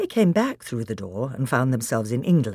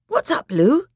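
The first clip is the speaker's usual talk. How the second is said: high, louder questioning call; startled query; 13 semitones higher, 5 dB louder than usual. Acted. Edmund asking Lucy what's up, startled query. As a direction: call out a sudden concerned question.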